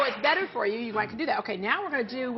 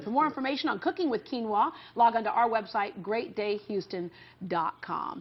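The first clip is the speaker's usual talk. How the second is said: announcer read. Acted. Show outro plug.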